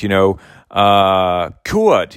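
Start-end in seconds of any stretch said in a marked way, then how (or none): 1.6-2.1 put-on a high, proud "Cured" in a German accent; Gerson's German accent. Preacher quoting Gerson on his healed patients, high German accent. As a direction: say "Cured" like a German doctor beaming with pride. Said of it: "as Gerson would say in his beautiful, German accent".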